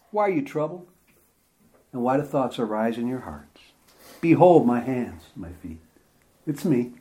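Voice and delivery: calm frightened friends, quietly; gentle reassurance. Acted. Jesus reassures his frightened disciples.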